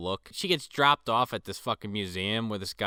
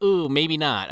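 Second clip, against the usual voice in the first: mock hesitant backtrack, pitched up; acted second thoughts; 5 semitones higher, 5 dB louder, slower than usual. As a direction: back off with a louder "ooh". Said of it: "And he's like".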